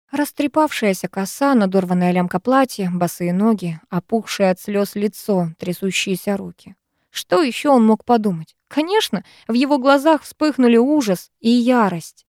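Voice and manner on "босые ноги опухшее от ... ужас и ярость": plain reading voice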